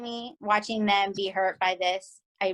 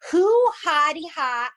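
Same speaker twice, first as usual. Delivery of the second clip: upset outburst; 6 semitones higher, 6 dB louder than usual. Real, not acted. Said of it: "I got so upset".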